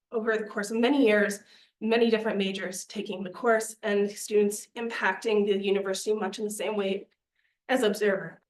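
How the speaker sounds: out of breath. Real, not acted. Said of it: "Sorry if I'm out of breath".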